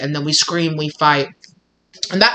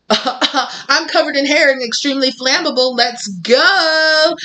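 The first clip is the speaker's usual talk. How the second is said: hammed-up cat voice, much higher and louder; excited cat; 10 semitones higher, 4 dB louder, slower than usual. Speaker voicing the cat dancing round a burning candle, wildly excited. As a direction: whoop it up like a reckless, thrilled cat. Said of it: "cats are like".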